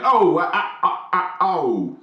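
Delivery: startled stutter. Retold or imitated. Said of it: "it made me go".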